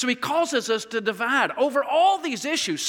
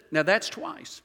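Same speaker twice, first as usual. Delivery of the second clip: dry wife's warning; 5 semitones lower, 4 dB quieter, slower than usual. Retold or imitated. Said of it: "leaned over ... and said".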